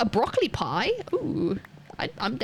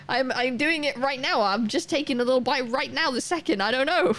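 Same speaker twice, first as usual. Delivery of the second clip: higher-pitched, put-upon protest; mock flustered; 4 semitones higher than usual. Diner pressed by waiter on the first bite, mock flustered. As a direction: plead as if put on the spot, half-laughing. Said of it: "You're putting me under so much pressure".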